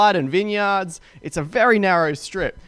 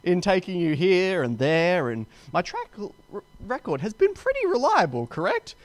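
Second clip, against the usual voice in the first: emphasizing donkey. Retold or imitated. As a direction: stretch it out to make the point. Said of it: "The donkey kinda emphasizes".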